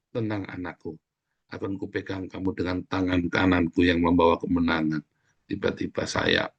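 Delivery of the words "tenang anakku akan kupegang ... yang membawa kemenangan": soft start, gently lowered; reassuring father God. Acted. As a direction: soothe a child you are holding. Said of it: "dicari kamu sama Tuhan. Dipeluknya". (suara Bapa yang menenangkan)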